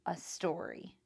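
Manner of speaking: steady read-aloud storytelling; story narration. A narrator's reading. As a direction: tell the story to the class. Reads a story to the class.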